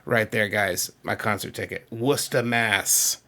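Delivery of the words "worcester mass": "Worcester" said as WUSS-tuh, no R; local Massachusetts pronunciation. Shown as a demonstration. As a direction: drop the R and middle syllable in "Worcester". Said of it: "that's how we say things".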